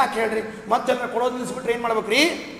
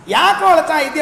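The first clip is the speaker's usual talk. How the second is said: louder, concerned question; calling out to friend; 7 dB louder than usual. Retold or imitated. Friend asks the crying man why he weeps, calling out. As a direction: call out why he's crying.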